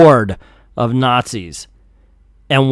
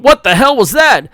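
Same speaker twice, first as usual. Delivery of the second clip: shocked; 9 semitones higher, 6 dB louder than usual. Acted. Commando shocked by blast.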